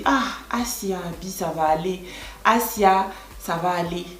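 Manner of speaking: soft, low words of consolation; comforting. Shown as a demonstration. Vlogger consoling someone who explains a problem, comforting. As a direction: gently reassure someone who is sad. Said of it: "Asia exprime le réconfort".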